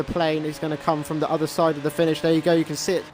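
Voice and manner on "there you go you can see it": rising excitement, higher and faster; excited. Real, not acted. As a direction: build the tension of a close race. Close finish against the plane.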